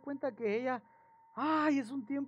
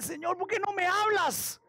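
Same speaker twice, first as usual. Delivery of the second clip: clamor fuerte; 10 semitones higher, 5 dB louder than usual. Retold or imitated. Reclama a Dios que no habla.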